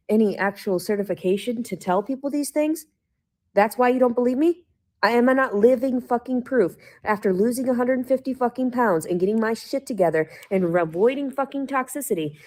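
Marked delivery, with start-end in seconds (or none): 3.5-12.4 angry outburst. Real, not acted. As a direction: vent real fury. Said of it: "I'm fucking angry right now".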